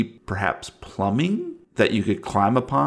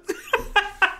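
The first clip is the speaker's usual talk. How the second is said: high laugh. Acted. Game master after mock death cry.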